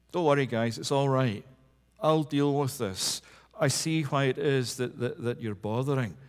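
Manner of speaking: imagined Jesus soothing the disciples, hushed and gentle. Pretend. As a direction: gently wave off the worry of friends. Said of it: "in a hushed and gentle a, a tone".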